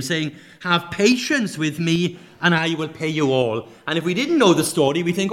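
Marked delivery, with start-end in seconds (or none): 0.6-3.7 begging fellow servant. Retold or imitated. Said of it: "begged him".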